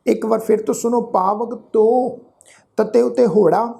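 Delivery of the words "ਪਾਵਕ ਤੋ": ਪਾਵਕ ਤੋ with a long drawn-out o; lengthened vowel. Shown as a demonstration. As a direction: stretch the o of ਤੋ in ਪਾਵਕ ਤੋ. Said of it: "ਉਹ ਲਮਕਾ ਵਾਸਤੇ ਲੱਗਾ ਹੋਇਆ".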